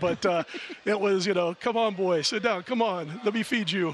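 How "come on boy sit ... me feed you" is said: roughly attempted female Jamaican accent. Speaker quotes a woman who used to feed him, in an attempted female jamaican accent. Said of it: "I can't do the accent".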